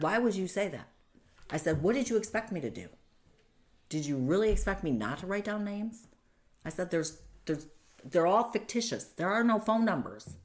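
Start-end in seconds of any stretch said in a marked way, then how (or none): 0.0-0.9 high, loud outraged protest; indignant retold yell. Retold argument with her attacker. 1.8-6.1 high, loud and fast disbelief; retold exasperated yell. Retold argument with her attacker. 6.9-10.4 high, loud outraged protest; indignant retold yell. Retold argument with her attacker.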